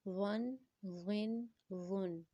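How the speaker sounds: ون as a thick, soft THW without whistle. Shown as a demonstration. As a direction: round each ون softly, keeping any hiss out. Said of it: "without whistle sound کے ساتھ پڑھیں گے".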